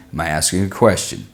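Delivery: low-pitched demonstration of asking; tone going down. Shown as a demonstration. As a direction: drop the pitch right down for "asking a question". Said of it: "My tone goes up and down".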